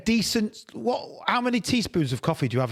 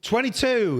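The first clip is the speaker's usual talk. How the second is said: bingo caller; 5 semitones higher than usual. Shown as a demonstration. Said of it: "that's a good rhyme".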